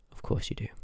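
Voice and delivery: breathy sarcastic whisper under the breath; whispered aside. Acted. Aside about the Seeker's moonstone, a sarcastic whisper. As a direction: mutter it to yourself, unimpressed.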